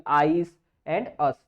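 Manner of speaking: आईज and अस drawn out slowly, stressing the hissing "s" at the end; demo of s sound. Shown as a demonstration. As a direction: stretch आईज and अस to show the "s". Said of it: "स की sound आएगी". ("आईज" और "अस" धीमे, "स" पर ज़ोर)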